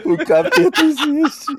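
slow, distorted horror demon voice. Pretend. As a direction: speak like a horror film demon. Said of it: "voz do demônio nos filmes de terror".

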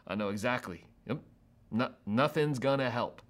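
low-key scoff with a sigh; acted-out doubtful sigh; scoffing resignation. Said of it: "you're probably giving that first laugh".

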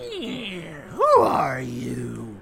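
drawn-out, hammed-up yell on who are you; slow mock shout of the last line; mock dramatic demand. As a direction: ham up the big question like a movie villain. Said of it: "where the guy's like".

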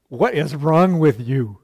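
slow, loud, exasperated challenge; indignant retort. Acted. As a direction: push each word out, affronted. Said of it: "she's too polite. I would have".

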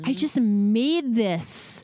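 slow, clipped retold anger; furious. Mom scolding her son. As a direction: spell out each word at the baby. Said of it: "I'm furious".

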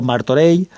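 Martorell ending in a drawn-out y glide; final ll as y. Shown as a demonstration. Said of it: "como una L o como una Y".

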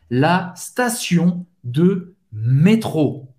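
la station said slowly, no E sound before station; slow clear French model of la station de métro; French pronunciation. Shown as a demonstration. Teacher slowly models la station for Portuguese speakers. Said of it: "não tem o E na frente".

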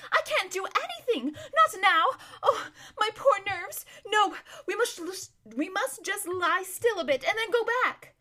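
high, tearful fretting; squeaking, distressed. A narrator's reading. Lazareline refusing to move for her poor nerves, high whiny squeak. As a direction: squeak helplessly, nerves in tatters. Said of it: "squeaked Lazareline".

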